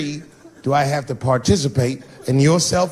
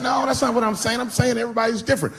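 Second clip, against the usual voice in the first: flustered; 8 semitones higher, faster than usual. Retold or imitated. Defending himself in argument.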